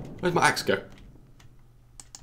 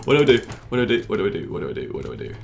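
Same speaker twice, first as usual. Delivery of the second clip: fading panic; 2 semitones lower, much faster than usual. Real, not acted. Gamer repeating himself, panic fading to a mutter. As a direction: panic draining into a murmur.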